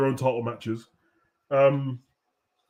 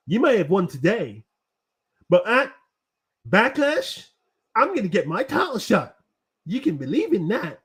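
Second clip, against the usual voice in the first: mocking a scripted wrestling promo, pitched higher; stupid wrestler promo voice; 5 semitones higher than usual. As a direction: ham it up like a cheesy superhero promo. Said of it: "pretend to do this stupid voice".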